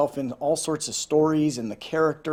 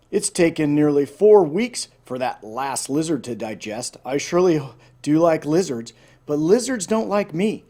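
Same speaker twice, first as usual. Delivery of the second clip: groaning; 4 dB louder than usual. Acted. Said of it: "Umbles burped and groaned".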